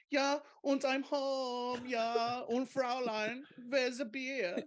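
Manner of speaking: very high, drawn-out cartoon German; mock German accent. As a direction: tease him with a hammed-up German accent. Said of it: "But when he gets home".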